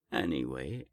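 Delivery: ordinary talk, nothing marked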